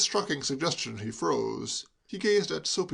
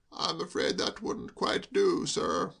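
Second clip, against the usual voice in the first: gently reproving; 4 semitones higher, slower than usual. Acted. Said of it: "with a faint reproving smile".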